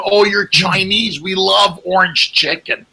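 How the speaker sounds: lightly hammed-up oblivious stranger; clueless fan. Comedian imagines saying this to a Chinese person, slow mock gush.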